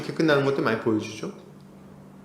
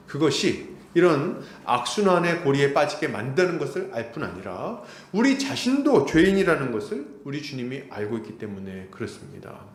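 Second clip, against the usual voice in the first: ordinary talk, nothing marked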